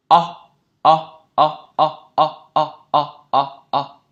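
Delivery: short, loud O with rounded lips; rounded O sound. Shown as a demonstration. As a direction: round the mouth for each punched O. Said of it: "Miệng tròn". (âm O tròn môi, ngắn và to)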